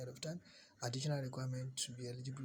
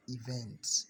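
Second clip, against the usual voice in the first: "event" set apart and said louder; stress on EVENT; 5 dB louder than usual. Shown as a demonstration. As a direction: land firmly on "event" as the key word. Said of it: "Emphasis on the word".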